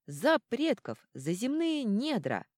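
loud roaring toast; yelled toast. A narrator's reading. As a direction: bellow it like a dwarf crowd. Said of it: "завопили гномы".

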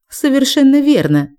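sugar-coat it, gloating; honeyed voice. Acted. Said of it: "медовым голосом".

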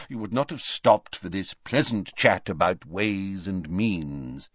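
put-on calm the boy down; kindly old wizard, unhurried; gentle old headmaster. Dumbledore gentle reply.

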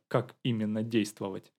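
ordinary delivery, nothing marked

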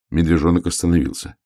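ordinary delivery

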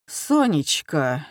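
медленно и жалобно протянуть имя; жалобная просьба к жене. Acted. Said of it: "жалобно сказал он жене". (капитан жалобно зовёт жену Сонечку)

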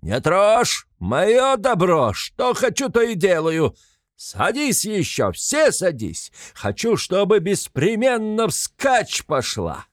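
high, loud, slow bellow; furious shout. A narrator's reading. Mikolka defends his property against the crowd, high furious yell. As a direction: defy them all.

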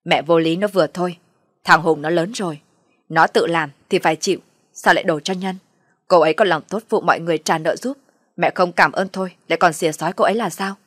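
son's exasperated retort; snapping irritably. Acted. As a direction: snap back in defence of a wife. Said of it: "mà gắt lên".

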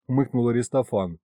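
plain reading voice

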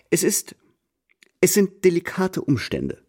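confidential whisper. Acted. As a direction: whisper it as if sharing a secret. De Grieux lowers voice confidentially. (vertraulich geflüstert)

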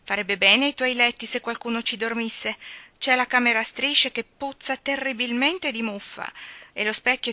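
lightly voiced whining aunt; Mrs Pallet, complaining. Mrs Pallet complains about her sister's bedroom, lightly voiced. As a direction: fuss over musty sheets. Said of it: "disse missus Pallet".

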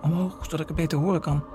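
high, frantic plea; panicked mother bargaining; desperate pleading. Acted. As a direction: beg for your life in a high voice. Mother begs not to be killed.

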